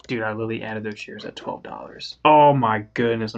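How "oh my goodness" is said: shrieking jackpot winner. Real, not acted. Realises big gain.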